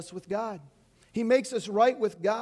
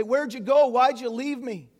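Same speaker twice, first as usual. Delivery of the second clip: mock berating; 2 semitones higher, 5 dB louder than usual. Jesus imagined scolding deserters, mock berating. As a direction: scold them as if they deserted you. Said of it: "He doesn't berate his disciples and say".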